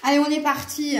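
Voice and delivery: lilting southern French accent. Real, not acted. Card reader getting started, southern French accent. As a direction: let the accent du Sud slip back in. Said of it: "quelquefois, j'ai mon accent du Sud qui revient".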